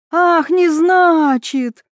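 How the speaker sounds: high, slow shriek; shrill squeal of outrage. A narrator's reading. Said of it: "Эльвира перешла на визг".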